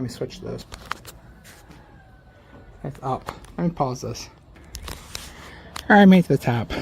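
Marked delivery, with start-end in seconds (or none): 5.9-6.7 panting after climbing the tower stairs; winded, catching breath between words. Real, not acted. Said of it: "I'm also out of breath".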